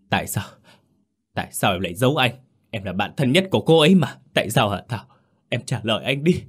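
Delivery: fast, insistent questioning; demanding accusation. Acted. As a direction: press hard for an answer. Phong shakes Thảo, demanding answers. (chất vấn dồn dập)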